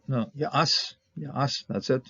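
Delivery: "As" clipped to one syllable; short form. Shown as a demonstration. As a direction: keep "As" short and final. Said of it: "Just keep it short".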